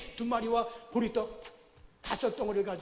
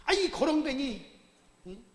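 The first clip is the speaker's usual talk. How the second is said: higher, irritated rebuke of a beggar; scolding crowd; 4 semitones higher, 4 dB louder than usual. Acted. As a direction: snap at the noisy beggar to hush. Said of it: "많은 사람들이 꾸짖습니다".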